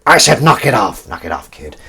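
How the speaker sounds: firm order that drops away to a mutter; lightly voiced Harrison Ford warning; Harrison Ford impression. A second go at the Harrison Ford line, firmer then fading. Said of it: "you do a good impression of Harrison Ford".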